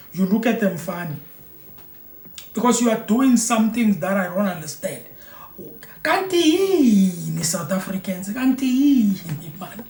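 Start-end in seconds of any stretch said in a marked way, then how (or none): 6.0-9.8 drawn-out, baffled reproach; exasperated disbelief. Real, not acted. Scolding South Africans for being too welcoming, exasperated.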